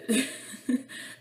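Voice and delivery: real high giggle. Real, not acted. Vlogger wrapping up her haul, giggling for nothing. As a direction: burst into a giggle over nothing. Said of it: "désolée si je ris un petit peu pour rien".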